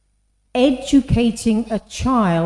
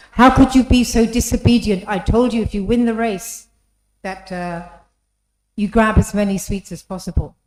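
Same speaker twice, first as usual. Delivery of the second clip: louder, stern telling-off; a teacher berating a child who won the race, in a stern, louder scolding voice; 6 dB louder than usual. Retold or imitated. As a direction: scold the little girl for disobeying.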